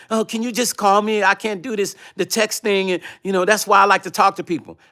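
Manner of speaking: high, put-on whiny voice mimicking her; mocking imitation. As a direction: mimic her pleading like a mock damsel. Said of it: "You said to me".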